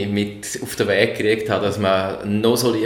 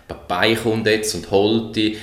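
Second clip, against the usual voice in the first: put-on gentle baby talk; slower than usual. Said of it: "der nette Tonfall".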